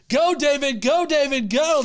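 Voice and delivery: loud, high-pitched rooting chant; egging someone on, punchy and loud; cheering on. Pretend. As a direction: cheer him on like a fan. Cheering on a viewer summoning Vice.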